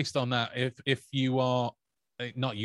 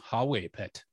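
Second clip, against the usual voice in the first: Geordie accent. Shown as a demonstration. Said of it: "let me finish it off".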